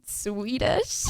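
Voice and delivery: high shrieking laugh around the word. Real, not acted. Naming Swedish baddies to chat, she shrieks with laughter. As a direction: burst out laughing.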